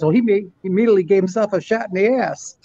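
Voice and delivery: fighting a laugh to land the joke; Rodney joke through laughter. Retold or imitated. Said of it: "He says".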